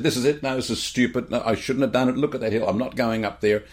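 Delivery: retold tantrum. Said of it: "she just spat the dummy".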